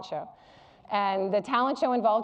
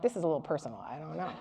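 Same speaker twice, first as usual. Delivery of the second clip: mock audience doubt; 8 semitones lower, 8 dB quieter, much faster than usual. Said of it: "you're like".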